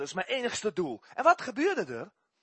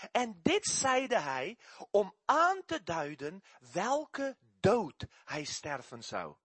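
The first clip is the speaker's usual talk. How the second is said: very slow, measured Bible reading; solemn scripture reading; much slower than usual. Acted. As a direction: read the old words weightily, word by word. Reads scripture aloud. (plechtig en heel langzaam voorlezen)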